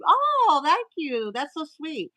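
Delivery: high, delighted oh; a sudden squeal of being touched; touched surprise. Real, not acted. Touched on reading kind card.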